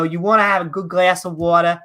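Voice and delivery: lightly imitated Boston accent; a hint of Boston in the vowels of "water". Shown as a demonstration. Host showing how Bostonians say their O's, light Boston accent. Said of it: "they say their O's with an A".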